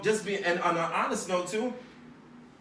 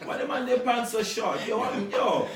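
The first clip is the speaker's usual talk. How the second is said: animated higher-pitched heckling, hammed up; mock street onlookers; 3 semitones higher than usual. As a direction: imitate baffled guys calling out a friend's outfit. Mocking street onlookers' reaction to skinny jeans.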